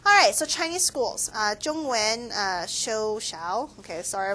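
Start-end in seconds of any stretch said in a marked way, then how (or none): 1.6-3.8 halting Mandarin with an American accent; slow, careful learner's Mandarin; foreigner speaking mandarin. Real, not acted. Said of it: "my Chinese is pretty bad".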